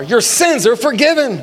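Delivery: bold, powerful pronouncement. Shown as a demonstration. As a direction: declare it with authority. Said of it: "say it with some power".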